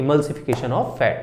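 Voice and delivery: "emulsification of fat" said slowly, syllable by syllable; slow drilled term. Shown as a demonstration. Teacher drilling the term for her class, slow and deliberate. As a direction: spell out "emulsification of fat" slowly for students to repeat. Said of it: "क्या बोलते हैं?".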